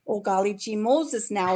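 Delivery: easygoing Minnesota folksy lilt, lightly put on; hint of a Minnesota accent, slowed a little. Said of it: "Minnesota accent".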